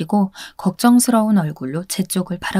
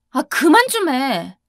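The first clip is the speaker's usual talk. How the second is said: slow, drawn-out mild mock yell; a hint of yelling at the boyfriend to stop; 5 semitones higher, slower than usual. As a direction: snap back slowly, half-hearted shout. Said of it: "제가 소리를 빽 질렀어요".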